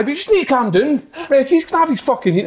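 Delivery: put-on high-pitched babyish nagging; lightly mocking high voice; mock wee baby. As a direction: imitate a teammate fussing like a baby. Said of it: "being a wee baby".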